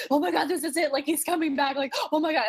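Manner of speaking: high, giddy fan reaction with a laugh; excited high-pitched outburst, half laughing; re-enacted giddy excitement. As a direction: replay bubbling excitement at a surprise return. Re-enacts hitting Peter in excitement.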